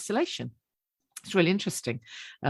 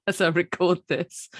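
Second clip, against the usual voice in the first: cold, teeth chattering while talking; 4 semitones higher than usual. Real, not acted. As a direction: talk through chattering teeth. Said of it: "my teeth are chattering".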